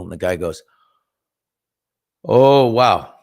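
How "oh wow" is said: surprised. Retold or imitated. Impressed by the pizza gift.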